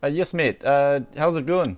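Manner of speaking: put-on Scottish accent on the phone. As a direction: greet him in a Scottish brogue. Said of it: "you guys requested I do a Scottish accent".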